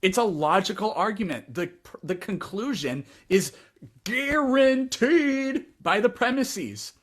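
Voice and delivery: high, slow silly giraffe voice. Pretend. Mock giraffe arguing back.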